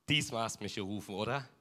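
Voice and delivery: put-on a sleepy boy asking; tired question. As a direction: ask it wearily, half sure. Boy asks priest, tired.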